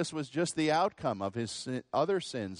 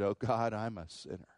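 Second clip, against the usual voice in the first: humble repentance; 2 semitones lower than usual. Retold or imitated. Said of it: "He said".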